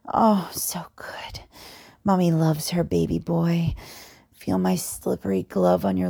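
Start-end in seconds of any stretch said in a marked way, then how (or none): 0.1-1.4 slow, hushed coaxing; slow whisper. Acted. Domme guiding her partner, slow whisper. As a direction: whisper it slowly, drawing it out.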